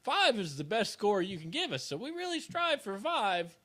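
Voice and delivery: a hint of a slow, pushy salesman; car salesman. Lightly mimicking a car dealer asking for five stars. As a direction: lightly mimic a dealer begging for a top score. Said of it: "like the guy at the Mazda dealership".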